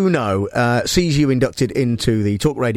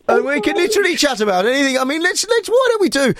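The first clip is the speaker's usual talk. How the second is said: mostly higher, put-on Brummie voice; Birmingham accent; 4 semitones higher than usual. Host offers caller awkward small talk, Birmingham accent. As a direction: keep chatting in a mock Birmingham accent. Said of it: "I'll do Birmingham".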